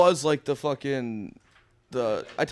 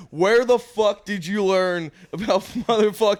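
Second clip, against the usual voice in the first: retold outrage; 7 semitones higher, 4 dB louder, slower than usual. Retold heated cucumber water quarrel.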